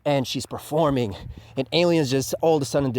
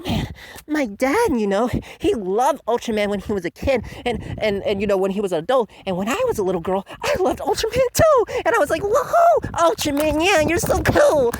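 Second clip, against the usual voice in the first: put-on much higher, giddy girlish voice; mock fangirl; 10 semitones higher than usual. Mocking Reina telling her backstory, high giddy girl voice. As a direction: gush like an excited little fan. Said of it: "her whole backstory is".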